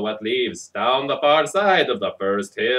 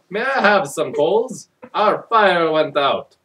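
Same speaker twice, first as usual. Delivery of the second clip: out of breath; 4 semitones higher, 5 dB louder, slower than usual. Acted. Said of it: "he panted".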